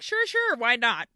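imitating carefree consent; breezy agreement. Acted breezy nuns agreeing.

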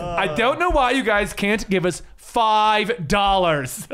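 slow pouty streamer voice; girl Twitch streamer voice. Pretend. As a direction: beg for donations like a streamer. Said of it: "girl Twitch streamer voice".

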